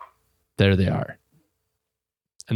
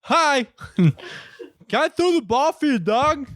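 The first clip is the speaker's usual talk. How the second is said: put-on high chirpy girl voice; imitating the girl; 14 semitones higher than usual. Girl asks to play with the dog, high and chirpy. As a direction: chirp it like an eager kid. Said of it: "she's just standing there going".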